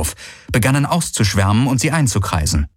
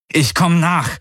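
high, insistent shout; urgent call; 8 semitones higher than usual. Acted. Hero promises to follow companion, urgent call. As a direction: cut in, calling urgently.

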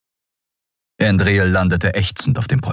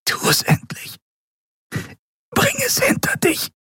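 breathy, pleading whisper; whispered plea; 3 dB quieter than usual. A narrator's reading. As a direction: whisper it, resigned to death. Andriel begs Kero to end it. (flüsternd, ergeben)

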